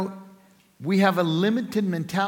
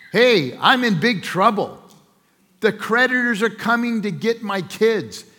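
desperate widow; 5 semitones higher, 6 dB louder than usual. Acted. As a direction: beg the prophet for help in a panic. Widow pleading with the prophet.

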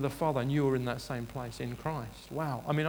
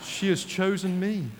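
raised, slow, self-important mock-regal voice; grandly favoured subject; 5 semitones higher, 5 dB louder than usual. Chosen subject replying to the excited caller, grandly. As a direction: savour each phrase with put-on grandeur. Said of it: "I don't normally speak like that".

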